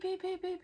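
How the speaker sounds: high, sharp beeps copying a monitor; a playful imitation of electronic beeps, pitched high; machine beeping. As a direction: mimic a hospital monitor going off. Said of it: "It's going beep".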